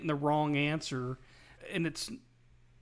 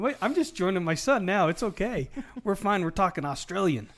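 light, higher and louder mock Australian accent; 5 semitones higher, 5 dB louder than usual. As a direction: playfully put on an Australian accent while joking. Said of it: "Gotta say it with a little bit of an accent".

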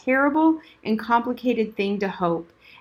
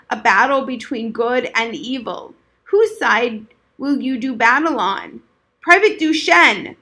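rising from stern question to bellowed name; old soldier shouting; 2 semitones higher, 6 dB louder than usual. Acted.

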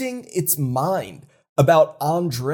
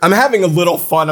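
playful emphasis; 2 semitones higher, 6 dB louder, faster than usual. Real, not acted. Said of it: "I'm not really this worked up about it".

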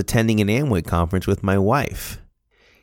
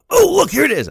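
mock surprise; 6 dB louder, faster than usual. Teasing son about hidden mouse.

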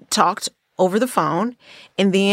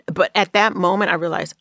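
normal talking voice

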